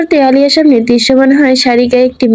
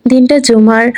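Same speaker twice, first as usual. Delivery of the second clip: plain reading voice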